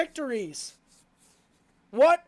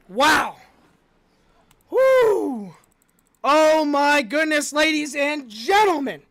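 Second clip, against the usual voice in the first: awed; 4 dB louder, slower than usual. Real, not acted. After the finish, slow exclamations.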